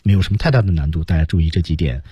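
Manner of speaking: ordinary talk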